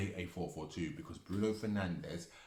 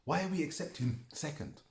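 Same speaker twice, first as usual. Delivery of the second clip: angry outburst; 9 semitones higher, 5 dB louder than usual. Real, not acted. Angry rant about finishing second.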